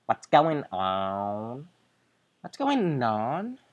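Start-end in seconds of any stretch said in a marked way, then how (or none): 2.4-3.6 put-on higher, airy Valley Girl question. Shown as a demonstration. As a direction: ask it like a stereotypical Valley Girl. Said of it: "the typical Valley Girl voice".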